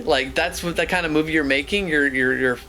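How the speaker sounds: imitating the ranger. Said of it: "he's like".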